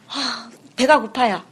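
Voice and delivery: slow, lightly voiced hungry baby; a hint of a whimpering infant. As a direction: speaker voices a baby who is hungry, slowly.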